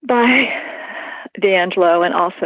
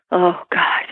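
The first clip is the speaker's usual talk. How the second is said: breathless whispered oh God; whispered dread. Retold or imitated. Seeing her attacker in court, a whispered gasp. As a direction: whisper it under your breath as he walks in.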